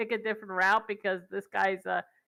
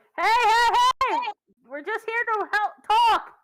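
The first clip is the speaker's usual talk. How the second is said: shrill, very high, loud yell; 13 semitones higher, 7 dB louder than usual. Player calling around the corner to whoever fired a crossbow bolt: yelling. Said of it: "I'm yelling".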